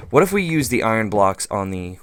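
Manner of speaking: normal talking voice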